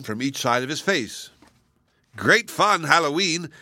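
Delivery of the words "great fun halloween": higher, louder merry cry; calling out gleefully. A narrator's reading. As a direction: call to each other while bobbing. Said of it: "they called out".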